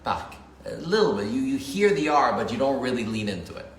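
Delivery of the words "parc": parc with the R just ridden over; light French R. Shown as a demonstration. Teacher shows how lightly to say the R. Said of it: "ride on top of".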